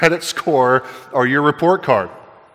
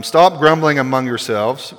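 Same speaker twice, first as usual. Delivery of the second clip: parent scolding. Retold or imitated. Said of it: "if you're a parent, that's all you ever say".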